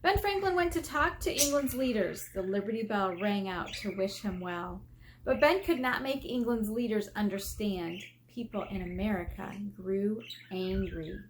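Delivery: put-on lively storybook reading for kids; gently expressive read-aloud voice; reading aloud to children. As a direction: read it like a picture book to a class.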